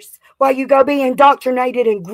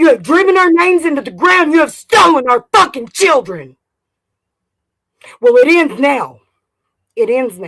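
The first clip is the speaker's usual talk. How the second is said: raging, fed-up, furious angry delivery; 4 dB louder than usual. Calling out named people for how they treated the speaker: angry. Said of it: "I'm angry".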